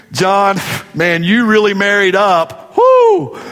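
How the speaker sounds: hearty buddy ribbing, whooping at the end; slap-on-the-back mock compliment; playful jab between guy friends; guy teasing a buddy. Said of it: "how we compliment each other".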